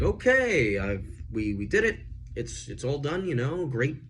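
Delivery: high, loud nervous rush to leave; panicked Aaron. Retold or imitated. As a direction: blurt it out, desperate to get out. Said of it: "He's like".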